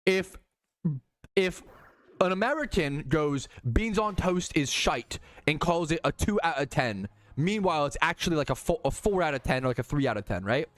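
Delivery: put-on loose, imperfect British accent. Presenting the beans on toast argument, put-on British accent. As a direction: argue it in a pretend British accent. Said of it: "in the British accent".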